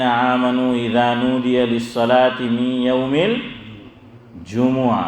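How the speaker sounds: slow, measured Arabic recitation; Quran recitation. Shown as a demonstration. Preacher quoting the verse as proof, slow Quran recitation. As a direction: recite slowly, drawing out the long vowels.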